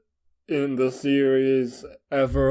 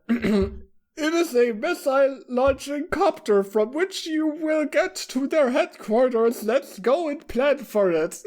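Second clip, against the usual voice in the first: very high-pitched character voice; put-on voice way up high; story character; 11 semitones higher than usual. Character planning the trip to their headquarters, very high voice.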